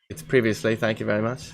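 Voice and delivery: softly prim mock-English "previously"; understated fake-English retort; English accent. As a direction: correct them in a put-on English accent. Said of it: "don't say previously".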